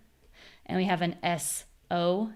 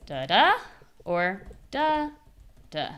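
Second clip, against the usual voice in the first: DA da, then da DA; two rhythms set side by side; stress contrast; slower than usual. Shown as a demonstration. Teacher contrasting stress patterns. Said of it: "the rhythm is".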